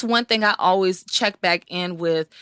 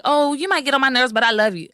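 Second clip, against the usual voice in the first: sugary put-down; 3 semitones higher than usual. Shown as a demonstration. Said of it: "I don't say it like that".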